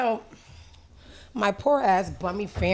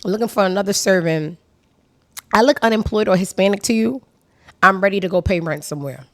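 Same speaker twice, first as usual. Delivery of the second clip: put-on loud, light West Indian accent; 8 dB louder than usual. Still reading her tweet in a light West Indian accent. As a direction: keep the West Indian lilt going. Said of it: "it was a West Indian accent attached".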